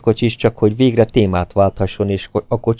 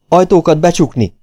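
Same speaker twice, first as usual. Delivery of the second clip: loud, high-pitched order; sharp command; 9 semitones higher, 5 dB louder than usual. A narrator's reading. Policeman orders the doors shut, loud and commanding. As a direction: order the whole room, urgently. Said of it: "parancsolta a rendőr".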